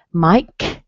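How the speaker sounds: "Mike," whispered with a rise; teacher whispering "Mike,"; whispered model. Shown as a demonstration. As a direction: breathe "Mike," without voice. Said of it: "Mike, whispered".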